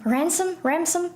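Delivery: "Ransom?" tested aloud, unsure of the sounds; unsure pronunciation. Real, not acted. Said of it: "I don't know how to say it".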